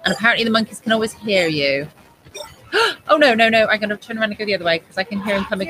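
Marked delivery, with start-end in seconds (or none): 2.7-5.7 startled panic. Real, not acted. Scared by approaching game monkey.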